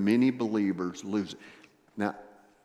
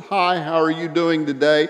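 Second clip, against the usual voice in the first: bright-smile greeting, higher and louder; big preacher smile; 5 semitones higher, 7 dB louder than usual. Retold or imitated. Preacher passing lady in wheelchair, big-smile greeting. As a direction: toss out a cheery passing hello. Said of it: "put on my big preacher smile".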